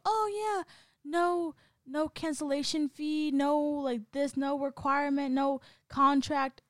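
high, bright mock salesman; mock sales pitch. Mocking gym sales pitch.

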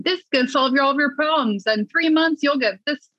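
mock sales pitch. Mimicking promises of a three-month fix, mock pitch. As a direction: lightly parody a quick-fix pitch.

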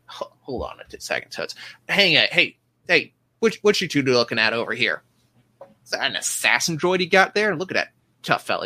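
bossy small-time officer blustering; gruff portly man. Acted. GM voices portly ship officer.

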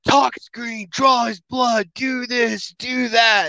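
frantic staff barking orders; panicked, high and rushed. Retold or imitated. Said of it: "they're like".

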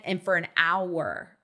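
ordinary talk

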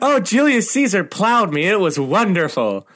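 high-pitched, thrilled gushing; gushing customer. Acted. Delighted holiday customer raving about Rome, gushing.

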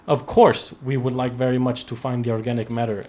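put-on lightly accented quote of a Russian minister; slipped-into accent. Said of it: "I started talking in an accent".

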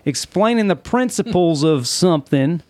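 hammed-up Southern accent. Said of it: "in this accent".

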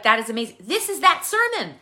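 high, thrilled gushing; excited. Pretend. Congregation member imagined thrilled at hearing God's sermon, excited. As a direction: gush like you just found out God preached. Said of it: "you'd be like".

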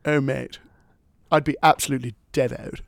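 loud, hammed-up British lad accent; jokey British accent. Co-host replying to his baffled friend, jokey British accent. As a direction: keep up the exaggerated British accent. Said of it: "don't talk like that to me".

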